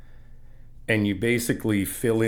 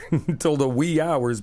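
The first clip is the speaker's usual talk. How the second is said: laughing; 4 semitones higher than usual. Real, not acted. Laughing reply about painting all night.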